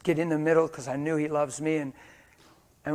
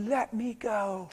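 slow, higher-pitched plea; acted child pulling away; retold plea; 7 semitones higher, 4 dB quieter, much slower than usual. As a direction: drag out the boy's protest, high. Retold boy pulling away when grabbed.

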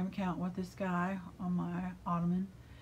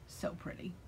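hushed admiration; 10 dB quieter than usual. Real, not acted. Admiring the speckles.

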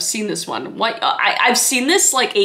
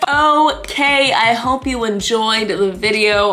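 doctor's voice; 4 dB louder, slower than usual. Retold or imitated. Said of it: "he said".

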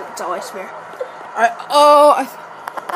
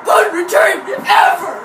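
excited shouting; 3 semitones higher than usual. Real, not acted. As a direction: crow over the big play. Celebrating best punt return.

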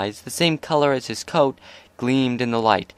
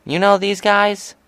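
much higher, slow disbelief; incredulous; 10 semitones higher, 4 dB louder than usual. A narrator's reading. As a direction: stretch it out in disbelief. Rainbow incredulous.

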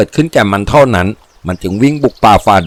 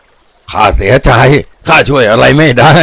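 slow, put-on villain voice; gloating villain; 2 semitones higher, slower than usual. A narrator's reading. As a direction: refuse with drawn-out mock regret. Gloating captive healer refuses.

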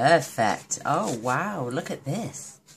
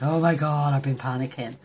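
louder burst on oh my God, then settling; imitating her relief, a little hammed-up; relieved outburst; 6 dB louder than usual. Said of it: "So she was like".

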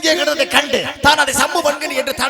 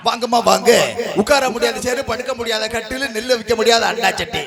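singsong street hawker. Acted. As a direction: cry your wares to the housewives. Calls out goods like hawker.

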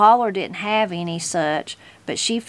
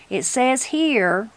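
slow, with a cracking voice; 4 semitones higher, slower than usual. Acted. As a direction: let the voice crack, slowly. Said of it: "Link Yawkey's voice cracked".

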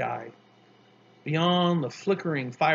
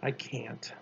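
low, soft resignation; much softer and lower, defeated; simply said; 4 semitones lower, 10 dB quieter than usual. A narrator's reading. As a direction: give up quietly. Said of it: "So he simply said".

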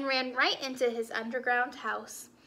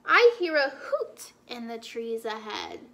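big beast noticing something; wary Gruffalo; 2 semitones lower than usual. Acted. Gruffalo hears owl.

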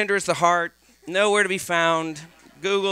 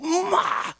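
put-on panicked teen; 8 semitones higher, slower than usual. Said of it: "He's like".

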